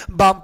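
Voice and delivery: बाम with long aa straight into M; silent L. Shown as a demonstration. Teacher gives students the correct reading, बाम with L dropped. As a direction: say बाम with no L at all. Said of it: "ये silent होंगे पूरी तरीके से".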